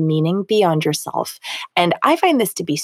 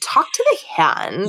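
put-on Valley Girl voice. Shown as a demonstration. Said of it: "a Valley Girl voice".

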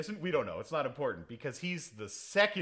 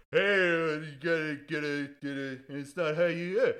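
mock fumbling Dolph; 2 semitones higher, 4 dB louder than usual. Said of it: "and he's like".

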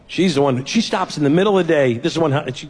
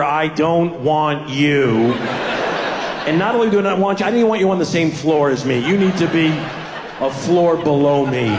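put-on bossy toddler. Toddler voiced, slow emphatic.

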